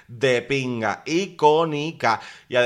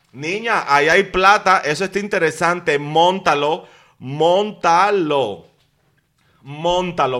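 excited urging; 3 semitones higher, 5 dB louder, slower than usual. Real, not acted. Urging Gaby to produce the show.

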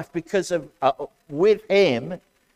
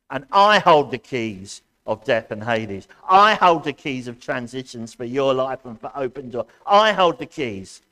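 proclaiming Jesus' words; 5 dB louder than usual. Acted. Voicing Jesus in sermon.

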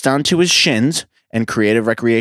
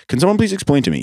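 Don impression; 7 semitones higher, faster than usual. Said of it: "This is how he talked".

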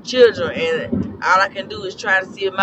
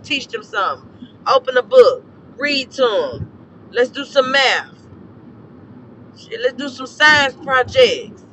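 heated rant; 4 semitones higher, 4 dB louder than usual. Real, not acted. Ranting at parents.

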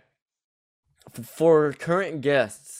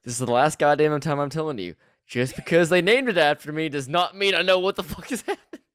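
louder, exasperated put-on telling-off; mock fed-up rant; 4 semitones higher, 4 dB louder than usual. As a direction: rant like you're sick of being asked. Acts Queen Mary answering, fed up.

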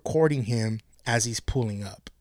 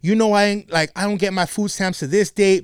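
retold fit; 3 semitones higher than usual. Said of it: "she was having a fucking fit".

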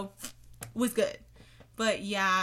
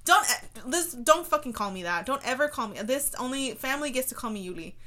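mock annoyed; 2 semitones higher, 4 dB louder than usual. Real, not acted. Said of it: "I just triggered myself".

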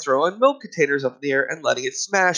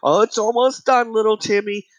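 higher, sing-song parent voice; placating parent; 4 semitones higher, faster than usual. Retold or imitated. Parent placating little Timmy in the shop, mock soothing. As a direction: soothe a fussing child in mock parent tones.

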